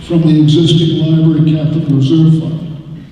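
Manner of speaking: measured formal reading of a warrant article. Real, not acted. Moderator reading the amendment to the town meeting, measured and formal. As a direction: read it out like an official motion.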